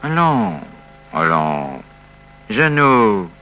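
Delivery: fed-up comforting turning into a scolding; irritated friend. Acted. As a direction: start low and held back, then snap at him. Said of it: "si vous êtes énervé".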